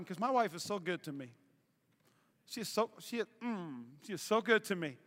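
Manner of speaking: soft, low, savouring tone; tender praise. Real, not acted. Praising his wife to the congregation, hushed and savouring. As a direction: drop low and relish it.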